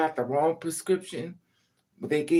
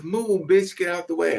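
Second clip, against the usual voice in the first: rude caseworker; 6 dB louder than usual. Retold or imitated. Caseworker voiced throwing her out.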